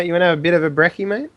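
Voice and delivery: quick fake Aussie invitation; mock Australian. Friend offering brekkie, quick mock Australian. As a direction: offer it in a matey Australian accent. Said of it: "Your Australian is actually pretty good".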